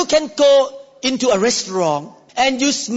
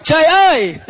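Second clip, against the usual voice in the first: Vietnamese exclamation; 3 semitones higher, 4 dB louder than usual. Retold or imitated.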